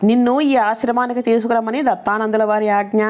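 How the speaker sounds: a hint of shouting to stop a passerby; retold shout. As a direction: call after him from behind, lightly. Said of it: "అని గట్టిగా అరుస్తూ చెప్పారు".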